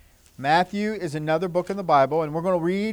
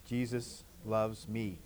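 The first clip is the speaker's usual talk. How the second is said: very soft and slow; hushed, slow and gentle; soft whisper; 8 semitones lower, 15 dB quieter, slower than usual. Shown as a demonstration. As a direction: breathe it out quietly. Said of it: "Can you say that?".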